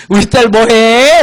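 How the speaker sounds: mock doting call, stretched and insistent; nagging mom. Mom phoning her daughter yet another time, hammed-up checking-in. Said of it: "좀 이따 엄마가 전화해".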